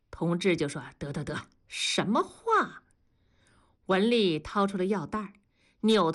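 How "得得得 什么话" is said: unvoiced whisper, brushing it off; hushed whisper. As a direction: whisper it, cutting her short. 同志悄声阻止. (悄声打断)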